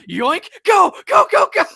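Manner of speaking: high, loud getaway cries; frantic mock shout. Grabbing the key and fleeing, frantic mock shout. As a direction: yell it like a thief bolting. Acted key grab and escape.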